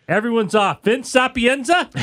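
mock TV boss. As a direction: play a network boss handing out assignments. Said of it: "Rupert Murdoch called a guy".

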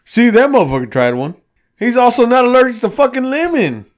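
mock drunk rant. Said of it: "He's like".

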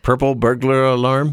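trying the tongue twister. Shown as a demonstration. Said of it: "here's a tongue twister for you".

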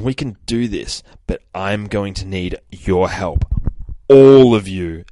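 measured, emphatic address with stretched key words; rallying speech. Acted. Hero rallying allies to overthrow a tyrant, emphatic speech. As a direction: address the troops, landing the big words. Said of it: "giving a bit of a speech".

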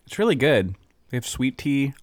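talking with a numb mouth. Real, not acted. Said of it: "My mouth is numb".

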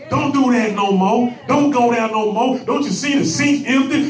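scolding crowd. Retold or imitated. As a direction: play the crowd telling him to shut up. Preacher voicing crowd silencing Bartimaeus.

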